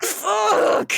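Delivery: high, drawn-out expletive; playful outburst; comic exclamation. Acted. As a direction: stretch the word out high. Character's delighted reaction to Skittles.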